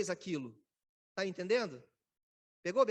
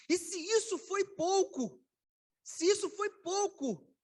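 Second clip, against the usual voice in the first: raised, slow, solemn divine voice, pitched higher; voice of God rebuking; 8 semitones higher, 3 dB louder, slower than usual. Acted. Preacher voicing God rebuking David, raised and slow. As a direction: boom down like God reproaching a king.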